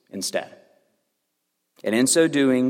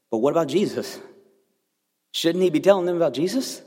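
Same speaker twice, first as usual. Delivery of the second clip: lightly voiced curious kid, a bit higher; child's voice; 6 semitones higher, faster than usual. Son asking dad about Jesus, lightly voiced child. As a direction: ask it like an earnest young son.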